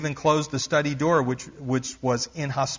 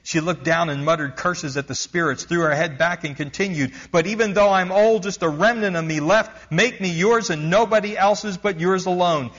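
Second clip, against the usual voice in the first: shouting to God; 4 semitones higher than usual. Retold or imitated. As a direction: call it up to heaven with everything. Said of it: "shouted up at God".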